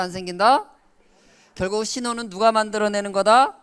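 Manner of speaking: ordinary delivery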